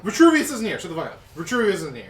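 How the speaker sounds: laughing. Real, not acted. Laughing retort.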